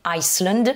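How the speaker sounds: Iceland with an audible S after the I; S sound pronounced. Shown as a demonstration. Teacher contrasting it with island, S clearly said in Iceland. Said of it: "là c'est l'Islande".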